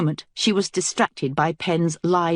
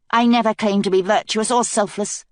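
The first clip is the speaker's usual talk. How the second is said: snapped back; 6 semitones higher, 3 dB louder than usual. Acted. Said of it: "Kelsey snapped back".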